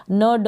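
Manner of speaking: न, ड said as two separate syllables; separate letter sounds. Shown as a demonstration. Teacher showing how not to end it, separated न, ड. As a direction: split न and ड apart, each with its vowel. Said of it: "ऐसे नहीं".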